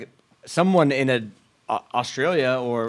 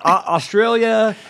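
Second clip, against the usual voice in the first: funny voice; 4 semitones higher, 3 dB louder than usual. Acted. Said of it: "read 'em in a funny voice".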